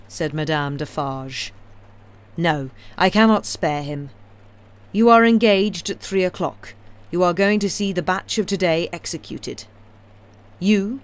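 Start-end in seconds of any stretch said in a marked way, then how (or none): 2.4-11.0 cold, louder, commanding; Madame's voice. A narrator's reading. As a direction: hand down orders.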